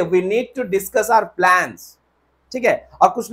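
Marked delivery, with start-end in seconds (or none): 0.0-1.8 very slow model sentence; slow corrected example. Shown as a demonstration. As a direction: dictate the fix slowly. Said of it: "नहीं sir, direct बोलिए".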